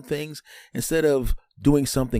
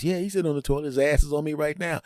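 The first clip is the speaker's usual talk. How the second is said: bidet voice; 5 semitones higher, faster than usual. Acted. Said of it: "And the bidet goes".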